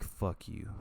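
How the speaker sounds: breathy whispered insult to himself; whispered curse. Retold or imitated. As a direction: hiss it at your own body. Self-talk at his excess skin.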